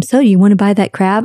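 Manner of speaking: ordinary talk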